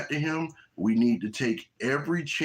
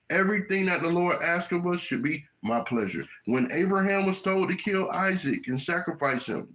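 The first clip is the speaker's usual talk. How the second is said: usual speaking voice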